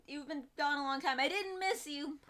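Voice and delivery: lightly voiced sulky cat; voicing the cat. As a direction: pout it like a sulky pet. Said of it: "and then he's like".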